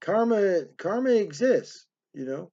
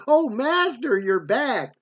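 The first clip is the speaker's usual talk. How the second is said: lightly voiced priest, higher on the opening cry; imitated priest greeting; 5 semitones higher, slower than usual. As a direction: mimic an eager-to-please greeting, pitched up at the start. Priest greets the returning storyteller.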